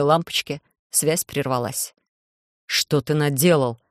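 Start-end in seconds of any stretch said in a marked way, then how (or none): none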